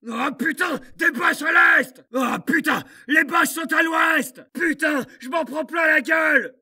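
yelling under heavy fire; shout, desperate and pinned down; panicked shouting. Acted. Soldat pris sous le feu. (cris de panique)

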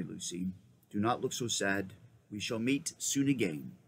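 low, gentle lion; a lightly voiced noble lion. Aslan speaks.

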